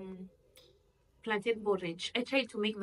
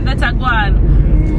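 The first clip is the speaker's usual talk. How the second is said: slow Jamaican Patois phrase, "That's a guan" drawn out; much slower than usual. Acted. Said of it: "I was speaking Patois".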